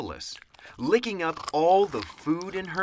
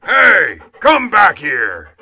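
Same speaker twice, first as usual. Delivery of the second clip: very loud, high officer's yell; big bellow, falling in pitch; commanding shout; 5 semitones higher, 15 dB louder, slower than usual. A narrator's reading. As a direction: holler after fleeing troops. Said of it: "shouted the Big Cheese".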